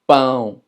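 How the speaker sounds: pão with a nasal -ão. Shown as a demonstration. Teacher models the Portuguese word for bread, nasal pão. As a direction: end pão in a nasal glide. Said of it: "Tiene el acento chiu".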